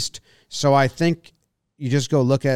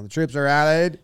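put-on light old-timey statesman voice; rally the troops like a wartime leader; Winston Churchill. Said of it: "I have it as Churchill".

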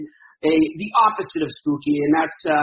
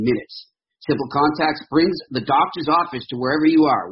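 smooth sponsor read voice. Acted. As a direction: read it like a radio ad. Host reads sponsor ad.

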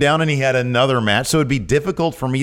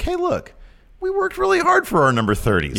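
sincere plea in a much higher-pitched voice; Carmella. Retold or imitated. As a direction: imitate a wrestler's earnest high-pitched appeal. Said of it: "She's very sincere. She's like".

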